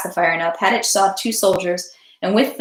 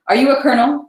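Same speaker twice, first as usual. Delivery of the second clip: higher, louder demand; mild German-accented cry; officer's sharp cry; 6 semitones higher, 5 dB louder, faster than usual. A narrator's reading. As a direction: cry out a challenge, accent barely there. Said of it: "the officer cried with a German accent".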